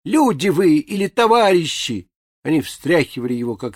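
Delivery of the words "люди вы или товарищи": put-on higher, thin little old man's cry; squeaky cry. A narrator's reading. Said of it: "кричавшего им писклявым голоском".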